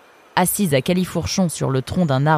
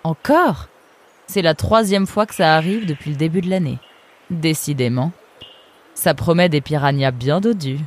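a cool, sardonic river guard; fox guard's voice. Acted. Eunice sizing up the arrivals, lightly voiced sardonic fox. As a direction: speak down to the newcomers, unimpressed. Eunice jokes about piranhas.

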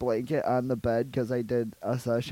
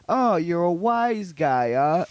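tough-guy sneer; 3 semitones higher, slower than usual. Retold or imitated. Cop taunts Rambo.

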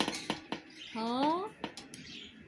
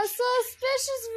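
drawn-out sarcastic; 11 semitones higher, 8 dB louder than usual. Real, not acted. Drawn-out mock word.

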